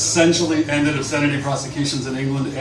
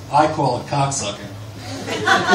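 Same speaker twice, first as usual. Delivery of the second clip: slow, laughing through the words; laughing aside; much slower than usual. Real, not acted. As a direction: fight back a laugh as you read it. Amused aside while reading.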